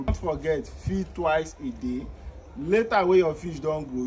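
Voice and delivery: ordinary talk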